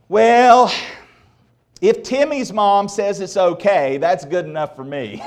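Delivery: a hint of a breezy, permissive mother; mock mom voice. Preacher voicing an imagined lax mom, light mock easygoing tone. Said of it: "Mom would never say".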